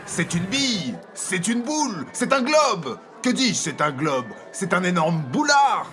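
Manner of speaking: descriptive. Acted.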